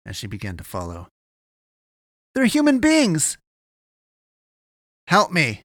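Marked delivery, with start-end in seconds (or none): 2.3-3.4 very high, slow, loud plea; impassioned cry, stretched out; desperate shout. A narrator's reading. Shouting after him to stop. 5.1-5.6 loud, raised-pitch shout; forceful shouted demand; calling back. A narrator's reading. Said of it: "he called back".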